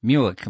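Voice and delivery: "Muic" with an oo-uh glide, ending in k; Irish pronunciation. Shown as a demonstration. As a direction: say "Muic" carefully as an Irish word. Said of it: "That comes from muic".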